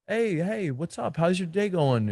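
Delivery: put-on high, bright-energy hello to a girl; fun nightclub greeting. Shown as a demonstration. Coach demoing a high-energy nightclub opener, animated. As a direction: open like you're already having a blast. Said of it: "I'm really having a lot of fun".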